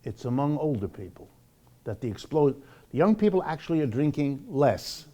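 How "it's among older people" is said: normal talking voice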